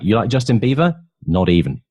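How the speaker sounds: indignant "Not even"; acted-out indignant denial; mock indignant exchange. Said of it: "So you like".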